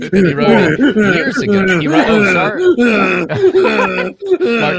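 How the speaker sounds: words bubbling through real laughter, loud and high; can't stop cracking up mid-sentence; laughing while talking. Real, not acted. Giggling while retelling a joke.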